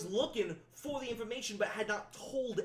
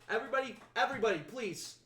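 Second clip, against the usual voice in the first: calling the crowd; 3 semitones higher, 4 dB louder than usual. Acted. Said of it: "and he goes".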